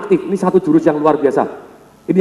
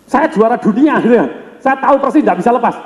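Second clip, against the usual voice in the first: proud champion, a touch higher, mildly insistent; Aikido champion; 5 semitones higher than usual. Retold or imitated. Champion boasting to Bruce Lee, lightly raised proud voice. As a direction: play the stubborn champion who is sure of himself. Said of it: "Siapanya sih juara dunia Aikido?".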